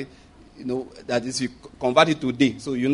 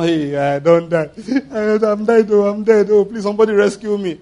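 wailing, higher-pitched show of panic; mock tantrum; 5 semitones higher, 4 dB louder than usual. Shown as a demonstration. Preacher showing what worry is not, mock tantrum. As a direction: play-act a hammed-up cry for rescue. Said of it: "That one is called tantrum".

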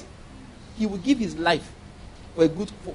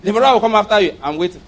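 mock pastor threat; 3 semitones higher, 5 dB louder, faster than usual. Pastor threatens non-tithers.

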